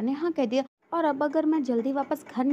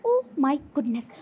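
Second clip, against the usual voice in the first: drawn-out slow dismayed sigh of oh my goodness; a slow, theatrical oh my goodness; mock dismay; much slower than usual. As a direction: stretch it out in mock despair. Dismayed exclamation in thought.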